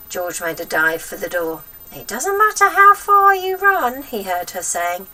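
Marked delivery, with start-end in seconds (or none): 1.9-4.0 high, loud menacing call; calling after him. A narrator's reading. Witch calling after fleeing boy.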